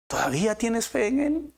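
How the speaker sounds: urgent repeat. Shown as a demonstration. Preacher pressing his listeners, high and urgent.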